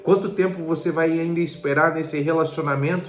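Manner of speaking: urgent, insistent preacher's challenge; impassioned preaching. Real, not acted. Preacher challenging listeners about waiting, urgent and insistent. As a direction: press each question home with rising urgency.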